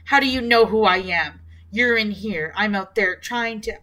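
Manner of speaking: angry. Acted. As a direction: push back at him in anger. Daughter argues angrily with father.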